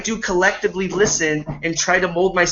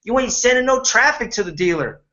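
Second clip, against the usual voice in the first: mock complaining to the dealer; 5 semitones higher than usual. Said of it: "we complained at the dealer".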